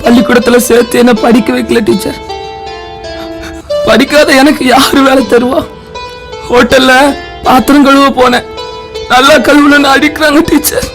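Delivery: understated, plaintive confession; pitiful pleading. Acted. Hungry boy telling the teacher his troubles, pleading. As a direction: explain it piteously, appealing to the teacher.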